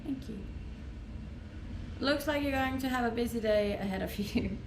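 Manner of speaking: normal talking voice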